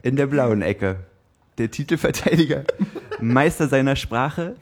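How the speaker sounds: slow, drawn-out fight night announcer; boxing ring announcer. Acted. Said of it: "Paul sein Intro machen".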